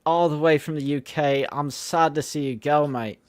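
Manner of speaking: slow, lightly put-on British accent slipping Australian; attempted British accent. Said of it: "That's too Australian".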